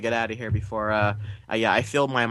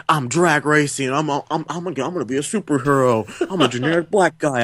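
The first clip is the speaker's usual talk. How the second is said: Johnny; 3 semitones higher than usual. Retold or imitated. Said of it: "and he's like".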